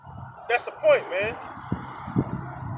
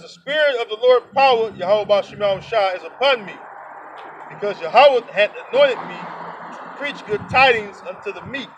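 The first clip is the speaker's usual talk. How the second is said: scripture reading. Acted. Reading Isaiah to his listeners, measured scripture voice. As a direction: read the verses out like Bible study.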